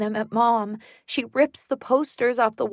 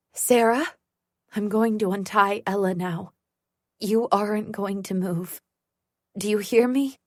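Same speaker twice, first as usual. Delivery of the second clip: calm and steady. Acted. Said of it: "Mom's voice is calm and steady".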